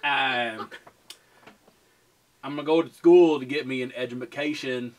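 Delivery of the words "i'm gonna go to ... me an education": put-on lightly done Southern accent; half-convincing Southern accent. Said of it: "That's Southern".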